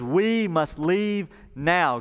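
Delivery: slow, emphatic order; urgent command. Retold or imitated. Angel grabbing Lot, slow urgent order. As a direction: stretch out each word for weight.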